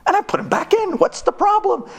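mock outrage at the front desk; exasperated protest. Arguing with hotel staff.

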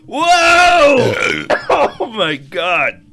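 choking on drink. Real, not acted. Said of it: "It's in my nose".

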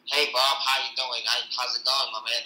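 put-on a mild take on a Texas accent, loud and friendly. Asked to show a Texas accent, a loud light Texas greeting. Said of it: "This one's Texas accent".

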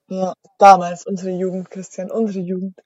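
soft, wistful sigh of nostalgia; dreamy, hushed remembering; nostalgic. Pretend. Wistful look back at youth.

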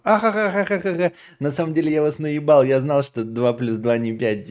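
high, hammed-up gloating villain cackle; mustache twirling villain. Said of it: "классический герой мема".

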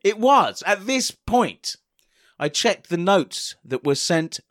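slow, overly theatrical delivery; dramatic slow reading. Shown as a demonstration. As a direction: read it like a bad Shakespeare audition. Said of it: "one more time".

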